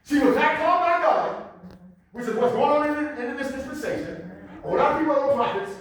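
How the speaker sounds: forceful preaching. Acted. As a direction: preach it out to the congregation.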